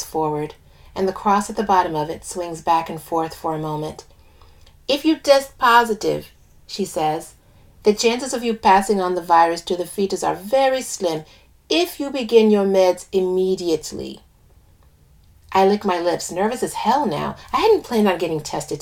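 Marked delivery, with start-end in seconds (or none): 4.9-6.3 put-on lilting West Indian accent. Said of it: "I do an accent for one of the characters". 7.8-14.2 put-on lilting West Indian accent. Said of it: "I do an accent for one of the characters".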